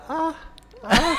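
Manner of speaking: short high "ah" cries; imitated sound. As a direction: mimic the overheard cries, high-pitched. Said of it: "Ada suara".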